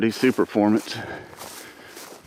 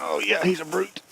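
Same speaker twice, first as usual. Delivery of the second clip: impressed; 11 semitones higher than usual. Real, not acted. Admiring the second coyote.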